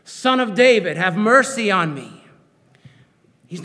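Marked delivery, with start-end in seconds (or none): 0.0-2.3 even louder, higher desperate plea; cry again, louder. Acted. Blind beggar shouting past the hushing crowd, desperate loud plea. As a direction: refuse to be silenced, cry over them. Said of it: "But he keeps on going".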